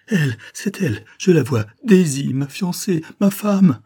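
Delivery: high, loud joyful shout; joyful cry. A narrator's reading. Coquentin sees Daisy resurface, joyful loud shout. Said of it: "un cri d'espoir et d'allégresse".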